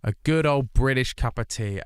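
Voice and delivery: hammed-up British tea pride; mock British. Telling chat about British tea, mock proud. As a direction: lean into the Britishness. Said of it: "I need to emphasize that".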